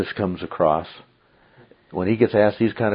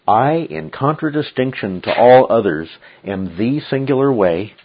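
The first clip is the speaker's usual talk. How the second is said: "I" and "the singular" weighted in a measured reading; emphatic. Shown as a demonstration. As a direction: lean firmly on "I" and on "singular". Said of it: "more emphatic than the English comes across".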